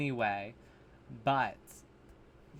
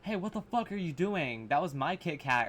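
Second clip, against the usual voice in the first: mock petty anger; 2 semitones higher than usual. Mocking a victim's reaction to a gun, petty anger. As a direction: protest as if over a stolen snack. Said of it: "not scream in anger".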